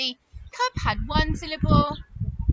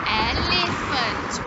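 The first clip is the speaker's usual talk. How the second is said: slow naming; 4 dB louder, slower than usual. Shown as a demonstration. Teacher models animal name.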